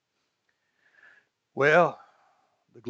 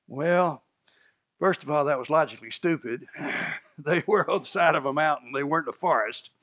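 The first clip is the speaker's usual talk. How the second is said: ordinary delivery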